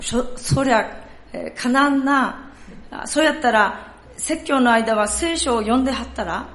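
a pastor answering in light Kansai dialect; reply kindly in Kansai dialect; Kansai accent. Acted. Pastor voicing the Kansai pastor's advice, in a Kansai accent. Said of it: "ちょっとここから関西弁になりますので".

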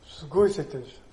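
usual speaking voice

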